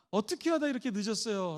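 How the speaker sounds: soft concerned question; a wife gently asking why he is late; worried, caring. Shown as a demonstration. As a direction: ask gently out of worry. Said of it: "걱정하는 마음으로".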